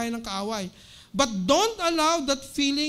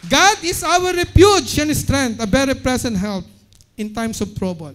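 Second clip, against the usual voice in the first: preacher booming the verse; loud proclamation; 10 dB louder than usual. Shown as a demonstration. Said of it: "Palakpan nga po natin ang ating Panginoon".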